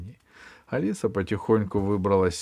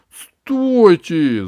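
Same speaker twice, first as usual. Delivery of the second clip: loud urgent shout; 7 semitones higher, 11 dB louder than usual. Acted. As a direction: yell it out, stopping them. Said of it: "закричала Алиса".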